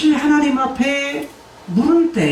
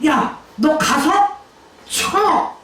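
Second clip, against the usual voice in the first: God's command; 5 semitones higher, much slower than usual. Acted. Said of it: "라는 말이야".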